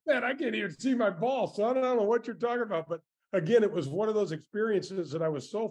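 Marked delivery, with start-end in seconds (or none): 0.1-2.9 higher-pitched imitated Scottish actor; quick, high retold impression of a film star; Sean Connery impression. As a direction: do the famous actor's accent, pitched up. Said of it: "in this really recognizable accent".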